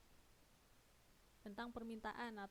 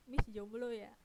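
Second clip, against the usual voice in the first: light question tune on "jomblo ya", a bit louder; questioning intonation; 6 dB louder, slower than usual. Acted. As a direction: read "Miss jomblo ya" out as a teasing question. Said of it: "karena intonasinya bertanya".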